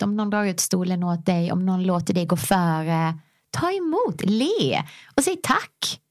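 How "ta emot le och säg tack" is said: hushed whisper, slow. Real, not acted. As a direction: breathe it out like a secret. Gentle advice at end of point.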